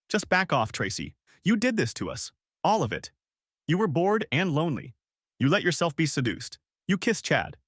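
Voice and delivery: high, pressed accusing voice; angry accusation. Acted. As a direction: hurl the blame at her. Husband accuses wife.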